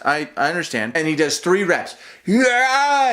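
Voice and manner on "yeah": mock lifting yell. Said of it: "he's yelling at every single one".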